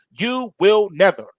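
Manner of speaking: "You will never" leaning hard on will; emphatic quote. Retold or imitated. Repeating her promise to make a point, emphatic. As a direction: stress on will, firm and final. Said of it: "That was an emphatic statement".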